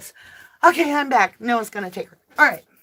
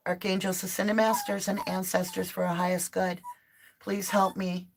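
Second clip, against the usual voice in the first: prayer; 4 dB quieter than usual. Acted. Opening prayer before tarot reading.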